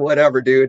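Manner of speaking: ordinary delivery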